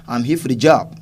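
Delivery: "for" reduced to a short unstressed "fer"; weak form of for. Shown as a demonstration. Teacher gives the answer example, weak "for". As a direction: slip lightly over "for", weight on "job". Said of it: "we just pronounce".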